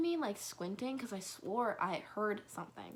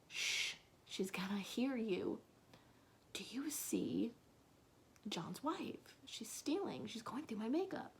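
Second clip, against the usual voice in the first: hushed whisper; 3 semitones higher than usual. Retold or imitated. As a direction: whisper so the intruder won't hear. Whispering to boyfriend about intruder.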